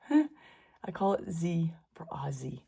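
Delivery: laughing half-whisper. Real, not acted. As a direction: whisper the joke with a chuckle. Private joke about her recipe.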